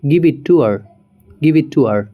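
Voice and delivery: "to" said as a quick "t", give it t' her; reduced "to". Shown as a demonstration. Teacher demonstrating reduced "to" to students. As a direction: clip "to" down to just "t". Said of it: "to को हम सिर्फ टी pronounce करेंगे".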